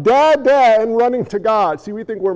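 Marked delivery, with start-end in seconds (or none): 0.0-0.8 put-on loud childlike call to a father; raised voice, pitch only slightly up; mock yelling. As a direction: call out loudly, acting the yell. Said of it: "Rather than us yelling".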